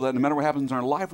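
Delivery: ordinary talk, nothing marked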